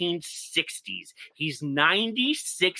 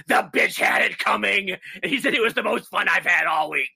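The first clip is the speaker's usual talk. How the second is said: devil voice; 2 semitones higher than usual. Retold or imitated. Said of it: "he starts talking like this".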